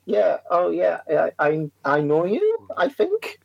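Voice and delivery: hesitant, slowing, lifting at the end; acted awkward, drawn-out uncertainty; unsure recognition. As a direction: pretend to know them, trailing into doubt.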